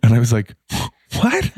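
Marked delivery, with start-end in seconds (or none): 1.2-1.5 shocked what. Retold or imitated. Shocked reaction to being dumped.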